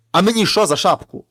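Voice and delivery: loud retelling of the shout; retold shout. Brother retells his scare shout at the thieves, loud. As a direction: replay the yell for his brother. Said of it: "Я як крикну".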